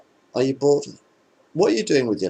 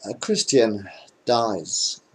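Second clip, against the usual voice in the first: slow deadpan setup; much slower than usual. Shown as a demonstration. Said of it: "I said a Christian dies".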